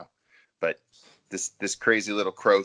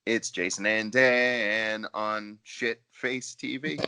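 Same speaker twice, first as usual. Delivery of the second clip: intro announcer; 2 semitones higher, slower than usual. Pretend. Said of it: "the first thing I thought of".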